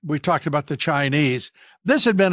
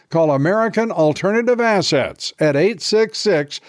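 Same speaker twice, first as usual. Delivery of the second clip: urgent ad read, a bit louder; 3 dB louder than usual. Acted. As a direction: pitch it like a warning ad. Host reads a gold ad.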